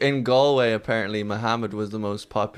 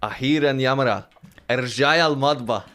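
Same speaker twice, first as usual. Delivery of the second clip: mock order; 2 semitones higher, much faster than usual. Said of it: "So I go".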